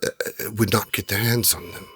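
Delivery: lightly voiced trader, earnest persuasion; genie trader. Trader assuring suspicious adventurers, lightly acted and persuasive. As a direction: plead your good intentions, halting a little. Trader justifies wanting the items.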